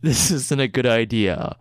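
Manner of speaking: movie trailer voice. Acted. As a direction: present the star like a blockbuster. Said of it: "in a movie trailer voice".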